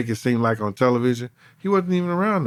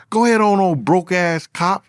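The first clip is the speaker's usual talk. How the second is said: higher, louder sneering jab, slowing on the insult; mocking taunt; 5 semitones higher, 3 dB louder than usual. Retelling the rival's taunt at him, higher mocking sneer. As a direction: toss it off like a cocky put-down.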